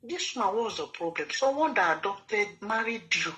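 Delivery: imitating an indignant pastor's wife; mock outraged telling-off; retold angry scolding. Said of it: "pastor wife was so angry".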